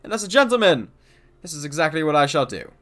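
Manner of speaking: proud, loud gentlemanly detective; gentleman inspector voice. Acted. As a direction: play a pompous inspector. Reads the Inspector's lines.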